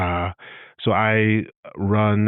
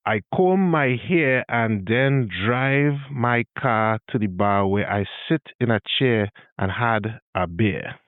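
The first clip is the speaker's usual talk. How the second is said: Trini accent sentence. Shown as a demonstration. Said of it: "further modified into".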